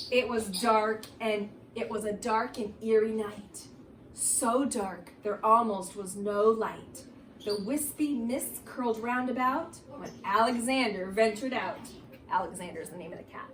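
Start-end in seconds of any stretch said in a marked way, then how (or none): 0.1-11.8 spooky read-aloud for the class; reading to children. Acted. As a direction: draw the kids into an eerie story. Reads Halloween book aloud.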